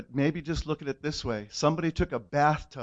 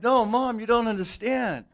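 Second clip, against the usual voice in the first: raised, higher insistence; insistent protest; 6 semitones higher, 4 dB louder than usual. Retold or imitated. Son insisting to his mom he was changed, raised and higher. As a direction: push back hard at mom.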